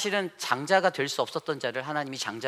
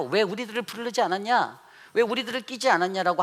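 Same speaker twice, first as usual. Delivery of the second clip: higher and louder, acting an aggrieved tribe; indignant mock complaint, raised and pushed; mock indignant protest; 7 semitones higher, 4 dB louder than usual. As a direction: demand it like a slighted proud clan. Ephraim tribe protests to Jephthah.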